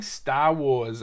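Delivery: Star Wars with dropped r, Stah Wahs; New England accent. Retold or imitated. Six-year-old boasting in a New England accent. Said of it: "the er example was Star Wars".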